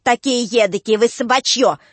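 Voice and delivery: лёгкий ломаный выкрик; бросай ругань с акцентом; Кинга кричит. A narrator's reading. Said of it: "кричит". (слегка ломаный крик)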